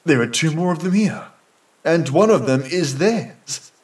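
crying out. A narrator's reading. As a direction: call it out to the men, pitch lifted. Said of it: "he cries out".

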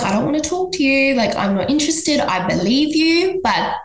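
tired, laughing "just stop"; exasperated. Retold or imitated. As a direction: shut her down, laughing in disbelief. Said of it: "'cause I'm like".

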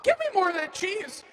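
mouth full. Acted. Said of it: "my mouth is so full of cheese".

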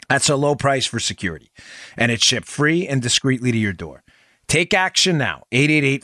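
measured host-read sponsor pitch; steady, practiced sales read; radio ad read. Acted. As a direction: read it as an ad, slowing on the web address.

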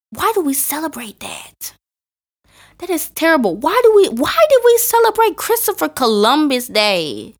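loud, high indignant outburst; outraged. Real, not acted. Host rants loudly about celebrating Columbus Day, outraged.

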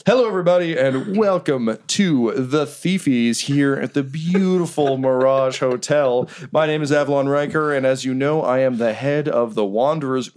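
smooth, showy emcee welcome; mildly hammed-up ceremony host; slick awards host. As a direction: play the polished host working the room. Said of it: "And he's like".

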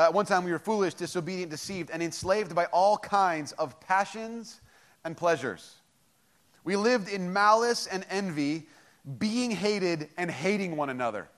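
slow, weighty reading of the verse; deliberate, emphatic Bible reading; slow scripture reading. Shown as a demonstration. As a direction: dwell on each word, especially enslaved. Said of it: "I would underline the word enslaved".

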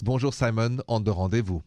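a hint of French accent on the show name; lightly French-accented show tag. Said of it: "My accent is French".

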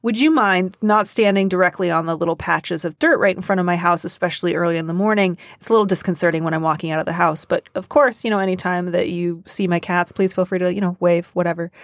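breezy request expecting a yes; casual and brisk. Shown as a demonstration. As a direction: ask as if they have already agreed. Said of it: "just say it in that tone that makes it really clear you are expecting".

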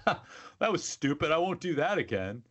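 lightly acted note to self; retold self-talk. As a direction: imitate shrugging off a dumb mistake. Retold young man's self-talk.

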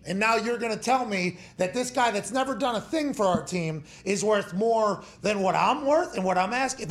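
mock furious player telling off management; angry player rant. Player ranting at front office.

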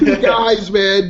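laughing, high and loud; laughing echo. Real, not acted. Host laughing as he echoes the cohost's line. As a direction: giggle the phrase back.

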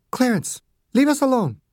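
doctor sending the guard out of the room; Margaret, firm. A narrator's reading. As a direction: send him out, calm but firm. Margaret dismisses Clarence.

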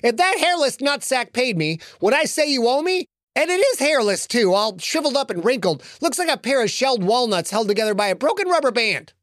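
mock him gleefully in a squeaky gnome voice, fast at the end. Gnome insulting Lincoln's backer, high gleeful creature voice. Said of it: "the gnome said".

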